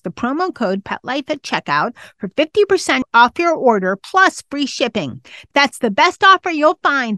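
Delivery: upbeat podcast sponsor read with lively pitch swings; animated, scripted promo delivery. Acted. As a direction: sell it like a personal endorsement, punching the offer. Host reads a sponsor ad.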